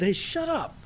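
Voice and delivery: high mocking shut-up from the crowd; hushing crowd. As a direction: brush him off like an annoyed bystander. Crowd hushing the blind man.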